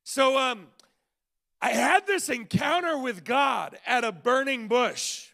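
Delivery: playfully confessing a lost argument; imagined Moses. Retold or imitated. Moses warning young Joshua, hammed-up rueful mentor. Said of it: "said something probably like this".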